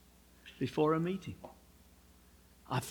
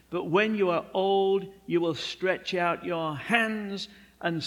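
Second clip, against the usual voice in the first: solemn prophecy; 3 dB louder than usual. Acted. Jesus' prophecy voiced.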